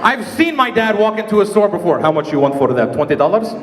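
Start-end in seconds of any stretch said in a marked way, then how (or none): 2.0-3.5 Arab dad voice. Retold or imitated.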